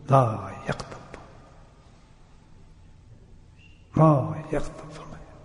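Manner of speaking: لا یکتب drawn out slowly, each word weighed; slow solemn quote. Acted. Preacher slowly intoning the Prophet's words. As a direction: let لا یکتب fall slowly and softly.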